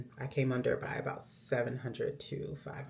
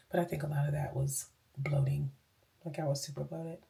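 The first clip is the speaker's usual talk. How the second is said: whispering. Real, not acted. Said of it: "I'm whispering".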